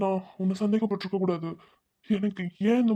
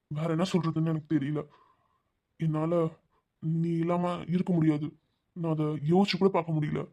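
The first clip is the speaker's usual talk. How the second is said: lower, softer, broken pleading; soft heartbroken plea; 3 semitones lower, 5 dB quieter than usual. Acted. Heartbroken lover pleads softly. (மென்மையான மனமுடைந்த கெஞ்சல்)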